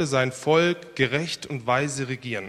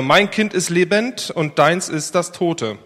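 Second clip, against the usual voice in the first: mock outcry; 3 semitones higher, 6 dB louder, slower than usual. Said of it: "rief die andere".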